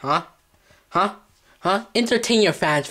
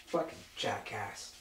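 whispered insult; 6 semitones lower, 16 dB quieter, slower than usual. Acted. Insult under his breath.

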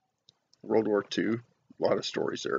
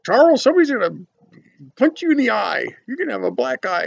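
high, louder scolding grandma voice; 11 semitones higher, 5 dB louder, faster than usual. Retold or imitated. Grandma scolding her prankster husband, high and louder. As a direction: warn him like a fed-up wife. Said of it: "my grandma always used to say".

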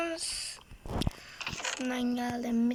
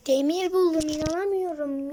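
loud, happy announcement of the find; thrilled shout over found iron; excited find; 2 semitones higher, 4 dB louder than usual. Real, not acted. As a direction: burst out with the good news.

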